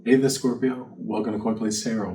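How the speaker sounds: ordinary talk, nothing marked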